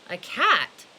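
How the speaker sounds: a loud, surprised echo; surprised question. Acted. Old man startled by his wife's wish, surprised. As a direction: snap the word back in surprise. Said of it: "asked the very old man".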